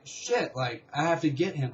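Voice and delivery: sudden high-pitched "shit", then urgent; mild re-enacted alarm, jumping up in pitch at first; retold panic. Dreamer seeing dad drive away, retold panic.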